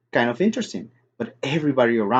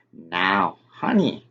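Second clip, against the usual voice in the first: sweet; 5 semitones lower, much slower than usual. A narrator's reading. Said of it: "real sweet".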